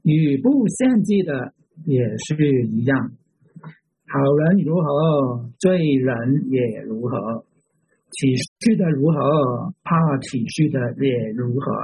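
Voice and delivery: measured reading aloud with pauses between phrases; slow scripture reading. Real, not acted. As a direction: read it out slowly, phrase by phrase. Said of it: "慢慢地读这一章".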